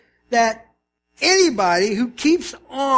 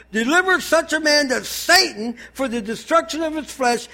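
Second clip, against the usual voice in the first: emphatic, slightly raised reading; Paul calling them out; 3 semitones higher than usual. Acted. Pastor voices Paul delivering a man to Satan, emphatic. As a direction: build it as a stern sentence passed in public. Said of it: "he's calling them out".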